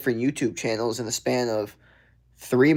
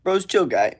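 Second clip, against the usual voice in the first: put-on higher-pitched take on Khabib's accent; 6 semitones higher than usual. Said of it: "say it in that accent".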